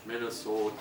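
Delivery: Minnesota accent with a long O. Shown as a demonstration. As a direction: say Minnesota with a drawn Minnesota O. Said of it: "we kinda say".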